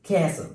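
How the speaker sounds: castle said with no T sound; silent T. Shown as a demonstration. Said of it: "we have a silent letter". (castle में T silent)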